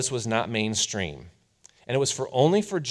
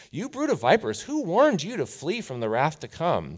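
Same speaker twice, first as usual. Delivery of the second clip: prophet's rebuke; 6 semitones higher than usual. Retold or imitated. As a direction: cry it out like a desert prophet.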